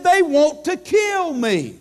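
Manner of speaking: urgent Paul quote. Retold or imitated.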